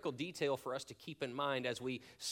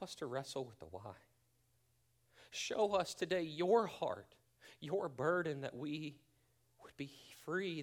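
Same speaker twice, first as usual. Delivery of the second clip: earnest, softening prayer voice that fades toward the close. Acted. Pastor praying for the congregation, in an earnest fading prayer.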